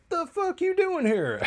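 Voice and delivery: high-pitched, slow, hammed-up demand; a put-on voice, hostile and drawn out; mock angry confrontation. Cleo shocked to see Cole at the wake, hammed-up high demand.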